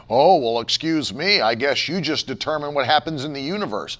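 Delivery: low, sarcastic mimicry; mocking objector. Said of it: "They act like you're arrogant".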